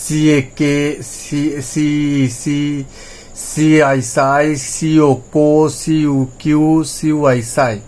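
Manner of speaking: সি then the sound, ending in কে or সাই; spelled-out reading drill. Shown as a demonstration. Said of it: "সিটা আপনাকে একটু বারবার পড়তে হবে". (বানান করে উচ্চারণ)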